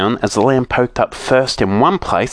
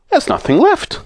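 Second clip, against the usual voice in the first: much higher, sorry; a little wail of loss; saucepan man dismayed. A narrator's reading. Saucepan man telling the others, dismayed.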